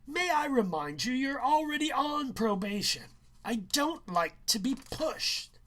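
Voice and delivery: high, loud, menacing teacher's warning; teacher warns student on probation, loud and menacing; stern teacher. Acted. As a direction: lean on him with the threat of probation.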